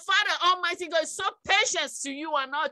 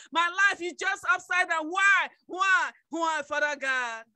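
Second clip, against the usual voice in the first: insistent mock lament to God; re-enacted complaint, pressing on without let-up; complaining prayer. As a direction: plead and grumble in a run of repeated questions.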